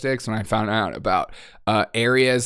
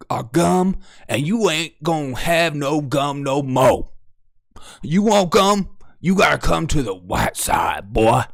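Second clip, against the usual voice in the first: mock racist clerk.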